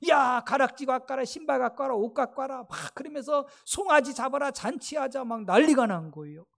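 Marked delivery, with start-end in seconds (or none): 0.1-2.6 retold excited orders, slightly raised; father joyfully calling servants. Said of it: "기뻐하며 즐거워하며 자랐다고 하면 막 그냥 종들을 불러대면서". 3.7-5.2 retold excited orders, slightly raised; father joyfully calling servants. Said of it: "기뻐하며 즐거워하며 자랐다고 하면 막 그냥 종들을 불러대면서".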